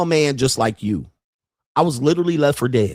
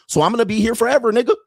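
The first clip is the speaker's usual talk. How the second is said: taunting; 10 semitones higher, faster than usual. Real, not acted. Taunting critics, high and loud.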